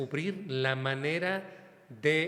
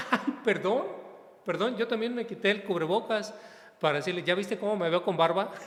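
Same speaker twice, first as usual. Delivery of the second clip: higher, louder acted-out apology; flustered apology; 4 semitones higher, 4 dB louder, faster than usual. Priest apologises to the unrecognised greeter, acted flustered and joking. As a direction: act out a joking, embarrassed apology.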